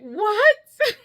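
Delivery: high, loud re-enacted shock; acted-out astonished outburst; retold disbelief. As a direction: blurt it out high and loud, stunned. Acting out disbelief at the gift.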